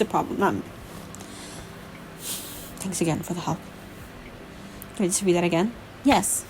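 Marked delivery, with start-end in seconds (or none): 2.8-3.6 low, soft, injured mumble; pained speech. A narrator's reading. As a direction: speak low, sparing your breath. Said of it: "it was painful for him to speak".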